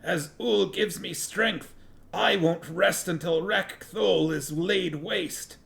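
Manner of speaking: high, slow, zealous oath; fanatic's drawn-out, high-pitched vow; fervent vow. A narrator's reading. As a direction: swear it with strained religious fervour. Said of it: "vowed in a fervent mutter".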